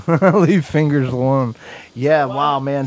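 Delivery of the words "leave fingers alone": laughing echo. Real, not acted.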